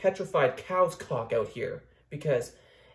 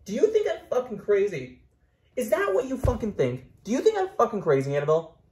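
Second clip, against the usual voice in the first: mock angry outburst; 7 semitones higher, 4 dB louder than usual. Yelling at the doll.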